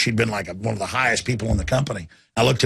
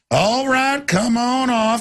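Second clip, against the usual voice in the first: high soothing call; calm the herd gently; soothing handler; 10 semitones higher, much slower than usual. Retold or imitated. Calming cows off trailer.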